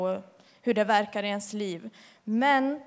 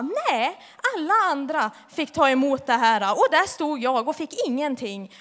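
a touch of mock anger, raised pitch; sulky protest; 3 semitones higher, 4 dB louder than usual. To God at home, angry she got nothing, mild mock sulk. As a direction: complain like a sulking teen, half-acted. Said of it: "Jag blev jättesur".

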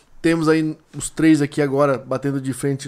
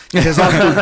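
louder, laughing through it; 6 dB louder than usual. Real, not acted. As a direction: laugh the joke out. Joking about paying by Pix.

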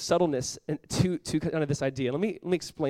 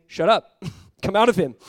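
loud, commanding rebuke, raised in pitch; stern rebuke; 4 semitones higher, 8 dB louder than usual. A narrator's reading. Jesus commanding the unclean spirit to leave, rebuking. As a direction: order the spirit out with force. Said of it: "But Jesus rebuked him".

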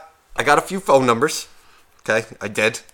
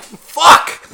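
high, loud yelped curse; dismayed outburst; 8 dB louder than usual. Retold or imitated. Man learning they're coming to his house, loud comic dismay. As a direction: burst out in comic alarm, pitched way up. Dismayed reaction to hearing their plan.

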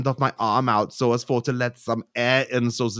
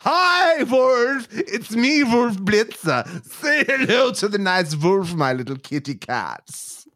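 mock squeaky Wolf Blitzer; 10 semitones higher than usual. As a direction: play the cat-obsessed weirdo. Plays Wolf Blitzer character.

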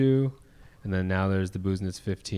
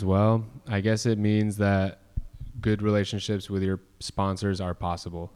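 imitated deadpan answer; understated, matter-of-fact dry delivery. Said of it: "he says very s-, dryly, he goes".

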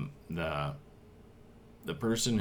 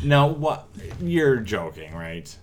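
outraged disbelief; 5 semitones higher, 7 dB louder, slower than usual. Real, not acted. Reacting to dislike of boundaries.

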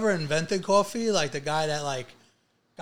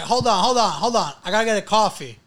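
imitating friend; 2 semitones higher, 7 dB louder than usual. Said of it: "he's like".

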